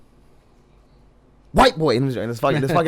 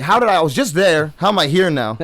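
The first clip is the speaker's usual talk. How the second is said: confused guy; 3 semitones higher, 4 dB louder than usual. Retold or imitated. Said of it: "I think he was confused".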